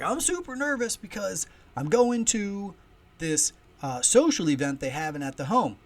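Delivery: high, loud, nervous oddball; Wild Bill impression. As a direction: imitate an eccentric man announcing his nerves. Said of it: "I'm doing a Wild Bill impression".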